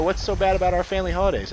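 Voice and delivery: high, whiny-style mimicry of family; mock protesting relatives. Grandchild imitating grandparents asking about holidays, high mock indignation. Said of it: "And they go".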